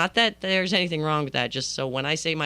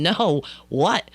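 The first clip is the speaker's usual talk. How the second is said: mildly raised, demanding voice; retold yelling; 4 dB louder than usual. Friend refusing to be fobbed off, mock yelling. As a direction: imitate a friend yelling for answers. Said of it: "she starts yelling".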